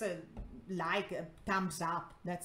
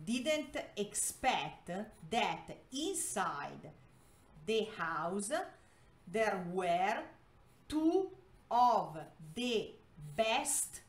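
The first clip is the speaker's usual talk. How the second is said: slow, word-by-word reading; slow read-aloud; slower than usual. Shown as a demonstration. Teacher translating a story for Spanish learners, slow read-aloud. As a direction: read it out in separate chunks for learners.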